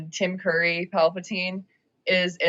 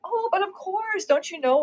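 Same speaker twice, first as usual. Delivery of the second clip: Palpatine voice; 12 semitones higher than usual. Retold or imitated. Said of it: "he's like".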